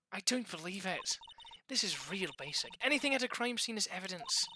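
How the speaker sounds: lightly voiced know-it-all science enthusiast; put-on character voice. Young detective lecturing the attorney on evidence, lightly put-on voice. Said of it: "I'm doing the Irish voice this well".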